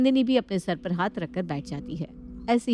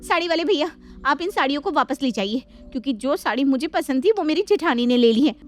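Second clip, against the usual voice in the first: higher, heated complaint to the mother-in-law; angry; 6 semitones higher, 4 dB louder than usual. Acted. Shalu tells her mother-in-law she wants no saree now, angry. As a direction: storm off in a huff, voice up. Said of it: "वो गुस्से में अपनी सास से कहती है".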